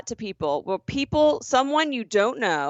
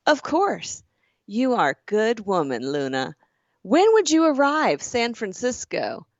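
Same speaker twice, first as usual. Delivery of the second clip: character voice. Retold or imitated. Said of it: "doing character voices".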